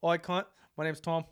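lightly put-on Australian accent; a touch of mock Australian; imitated Australian. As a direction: greet like a casual Aussie roommate. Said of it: "a roommate in college that was Australian".

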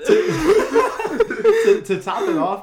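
laughing and stalling. Real, not acted. Starting the punchline to friends, laughing. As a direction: fight through laughter. Laughing while telling story.

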